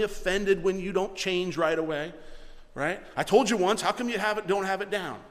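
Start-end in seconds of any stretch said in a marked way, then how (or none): 3.2-5.2 exasperated, louder scold; a mild mock scolding pastor; impatient scolding. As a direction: nag at someone who won't change. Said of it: "That's not long suffering".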